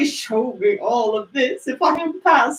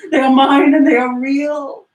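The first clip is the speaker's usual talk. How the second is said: loud joyful relief; 6 dB louder than usual. Acted. Scrooge wakes, relieved.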